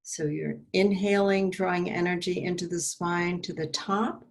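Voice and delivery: measured meditation guide with long pauses; guided meditation. Acted. Meditation leader guiding listeners to drop tension into the belly, calm guided pacing. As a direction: lead them through it in unhurried phrases, leaving space to breathe.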